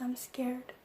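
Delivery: whispered, barely voiced admission; scared whisper. Girl admitting to her adoptive mom she is scared, whispered. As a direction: confess the fear under your breath.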